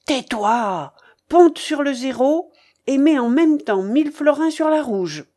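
loud, high, bossy orders; imperious old gambler. Acted. Babouchka orders her companion to bet, imperious. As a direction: silence him and order the bet.

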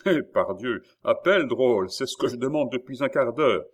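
loud, exasperated shout back; impatient retort. A narrator's reading. Prince answering the guard's threat, loudly impatient. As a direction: fire it back through the door.

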